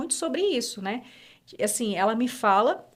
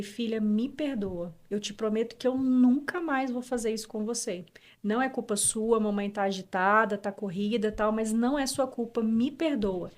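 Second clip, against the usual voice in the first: tender apology; 3 dB quieter than usual. Retold or imitated. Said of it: "e eu falei com ela".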